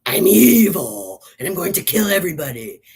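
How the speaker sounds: deadpan evil line, mildly mocked; mock monotone villain; mocking flat villain read. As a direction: read the threat with no feeling at all. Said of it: "she played it, like, totally flat".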